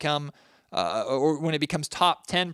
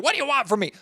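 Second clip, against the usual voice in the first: pitched much higher, a fed-up mock whine; mock exasperated; 10 semitones higher, 3 dB louder, faster than usual. Shown as a demonstration. Host mocking a fed-up tone he isn't using, higher and exasperated. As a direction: toss it off like a defensive, put-upon host. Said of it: "I'm not being like".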